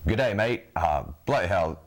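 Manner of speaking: half-hearted British accent that slips toward Australian; attempted British accent. Shown as a demonstration. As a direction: try a British accent, not quite landing it. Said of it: "extent of my British accent".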